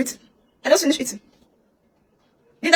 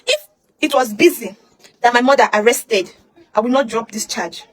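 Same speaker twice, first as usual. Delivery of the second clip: tearful; slower than usual. Real, not acted. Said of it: "emotional, crying".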